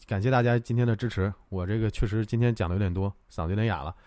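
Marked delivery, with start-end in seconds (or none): 1.5-4.0 tired, hoarse from talking. Real, not acted. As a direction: speak with a worn-out scratchy throat.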